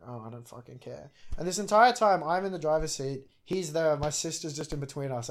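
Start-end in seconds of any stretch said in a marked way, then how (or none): 0.1-1.1 low, soft brush-off; dismissive aside. Retold or imitated. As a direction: wave him away under your voice. Dismisses rider's rambling.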